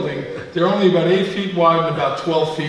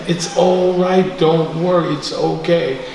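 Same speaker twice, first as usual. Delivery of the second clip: kind reassurance; 2 semitones higher than usual. Retold or imitated. Guru reassuring his crying disciple, kind and soothing. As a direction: imitate a guru gently calming someone. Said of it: "he said it with such kindness".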